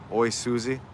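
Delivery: low, soft hint of a Russian accent; Russian-tinged greeting, pitched low; slight Russian accent. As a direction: say the name with a light Russian accent. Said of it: "with a slight Russian accent".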